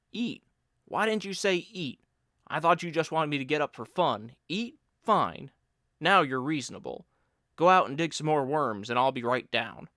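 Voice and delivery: lightly voiced friend, suddenly keen on food; a hint of a teasing buddy, perking up at breakfast; Bill's voice. Bill teasing his friend about getting up, lively.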